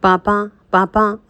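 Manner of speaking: slow, drawn-out tearful calls; a little girl sobbing for her papa; child crying. A narrator's reading. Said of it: "फूट फूट कर रोने लगी". (धीमे, रोते हुए पुकारती बच्ची)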